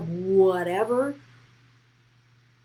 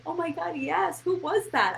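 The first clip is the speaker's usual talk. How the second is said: much higher, amazed squeal, mock; imitating amazed assistant; 11 semitones higher than usual. Assistant recalling her scared past self, mock high amazement. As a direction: play the assistant gasping at her old self. Assistant voiced in retold chat.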